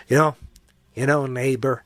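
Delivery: a light hint of a gentle kids' TV host; mildly mock a kindly neighbor host; Mister Rogers imitation. Mocking Elmo to viewers, in a lightly voiced Mister Rogers. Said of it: "Mister Rogers imitation right there".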